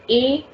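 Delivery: "écoutez" sounded out, "ay ... koo ... tay"; same A sound. Shown as a demonstration. Teacher giving a third example, "écoutez" split into syllables. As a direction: break "écoutez" into three clear syllables. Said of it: "giving you the same sound".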